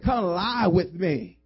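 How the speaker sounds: slow, drawn-out come-on; slow mock seductive. Preacher voicing Potiphar's wife, slow mock seduction. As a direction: stretch it out like a temptress.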